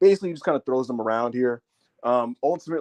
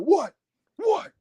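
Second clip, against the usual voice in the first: high squeaky taunt; hammed-up Braun taunting a rival; mock Braun taunt. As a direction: goad him in a cartoonish voice. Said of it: "he's like".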